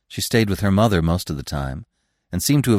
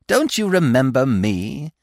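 slower, higher, lightly ingratiating; pleased squirrel; 6 semitones higher, slower than usual. A narrator's reading. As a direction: ask it with a touch of pleasure. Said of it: "putting on a pleased expression".

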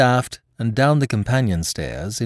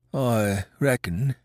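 sly; 4 semitones higher, slower than usual. A narrator's reading. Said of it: "watched me keenly and slyly".

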